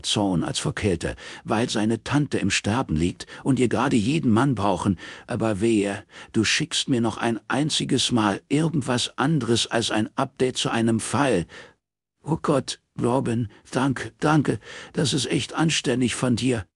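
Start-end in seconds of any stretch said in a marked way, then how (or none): 1.4-11.5 cold threat, a little higher; stern warning. Acted. Robin warning Morris never to send anything again, stern. 12.2-16.7 higher, grateful man's voice; relieved Morris. Acted.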